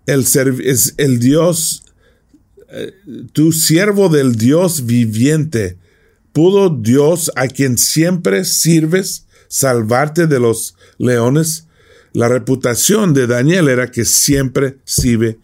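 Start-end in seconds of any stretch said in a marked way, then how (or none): 0.1-11.7 slow, higher, drawn-out desperate question; anguished plea. Shown as a demonstration. Preacher showing the king calling to Daniel, slow anguished plea. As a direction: stretch each word like a worried king. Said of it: "fíjate cómo lo dice".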